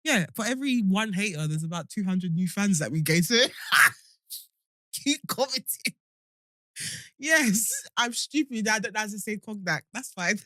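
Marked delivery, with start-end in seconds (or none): 3.2-7.7 slow, teasing taunt; slow laughing dare to the haters. Pretend. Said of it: "taunting the haters".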